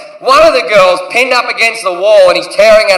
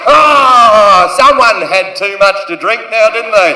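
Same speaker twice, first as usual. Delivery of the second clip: put-on babying tone; slower than usual. Soothing crying girl.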